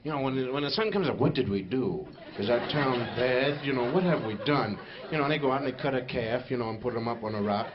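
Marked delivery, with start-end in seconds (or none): 1.2-4.8 fearful townsfolk. Acted. Seattle folks fearing the sun.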